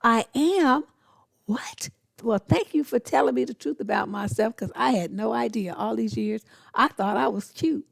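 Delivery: high, loud mock astonishment; feigned enthusiastic shock. Answering a man who called her ugly, feigned enthusiastic shock. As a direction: overplay being amazed and delighted by the news. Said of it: "I was all enthusiastic and shocked".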